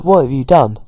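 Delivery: mildly angry, pushed reproach; lightly acted telling-off; angry demand. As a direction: act a touch cross, leaning on the question. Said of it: "And he gets really angry".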